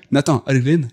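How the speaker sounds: Nathan Algren said with a put-on Japanese accent; mock Japanese accent. Shown as a demonstration. Podcast host names the film hero, in a light mock Japanese accent. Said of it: "et si je te dis avec l'accent".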